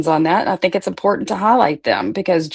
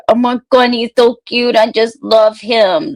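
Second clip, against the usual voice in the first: gushing; 5 semitones higher, 4 dB louder than usual. Real, not acted. Gushing over baby nephew.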